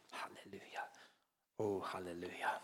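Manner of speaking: breathy unvoiced hallelujah under the breath; whispered hallelujah. Real, not acted. Preacher whispering praise between sermon points. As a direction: murmur it to yourself, almost silent.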